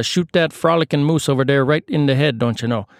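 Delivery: hammed-up Canadian hunter accent. Islander guiding refugees on a moose hunt, comic Canadian accent. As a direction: put on a shaky attempt at a Canadian accent. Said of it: "done with the Canadian accents".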